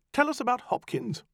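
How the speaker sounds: high, cold magician commanding; stern command. Acted. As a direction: order the demon sharply. Farrar commands the demon.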